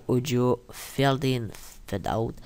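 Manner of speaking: English words in a rough French accent; bad English accent. Real, not acted. Tutorial host naming the audio effects, bad English accent. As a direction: say the English terms with a poor English accent. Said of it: "excusez-moi pour l'accent anglais, tout pourri".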